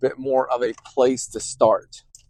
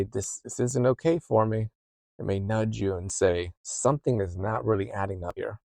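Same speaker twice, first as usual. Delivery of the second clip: softer, calm inner voice; a calm nudge, kept low; quiet intuition; 3 semitones lower, 6 dB quieter than usual. Retold or imitated. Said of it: "often quiet".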